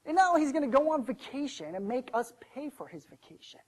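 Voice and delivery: indignant. Acted. Servant fumes to himself over one piece of gold, indignant. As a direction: act out a slighted servant's grievance. Slighted servant fuming in thought.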